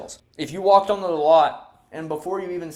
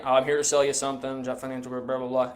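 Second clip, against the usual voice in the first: soft, dull scripted pitch; bored telemarketer; 3 semitones lower, 4 dB quieter than usual. Shown as a demonstration. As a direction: drone through it unenthusiastically. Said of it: "you sound awful".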